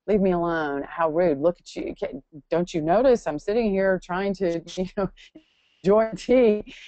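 mock-annoyed at being interrupted over tea; reactive snapping.

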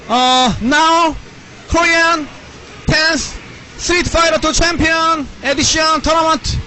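hyped, drawn-out tournament announcer call. Acted. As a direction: announce the final like a ring announcer.

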